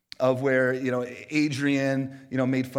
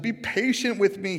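mild plea, raised and drawn out; begging; 7 semitones higher, 5 dB louder than usual. A narrator's reading. Servant on his knees before the master, begging. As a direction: plead slowly in a higher voice. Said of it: "he begged".

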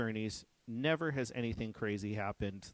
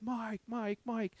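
a friend's higher voice calling a name, lightly done; mock calling out; 12 semitones higher, slower than usual. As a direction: call him over, voicing the friend. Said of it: "And he's yelling".

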